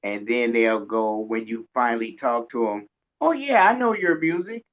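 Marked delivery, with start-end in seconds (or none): 3.2-4.6 mock fan. Host mimics fans who never comment.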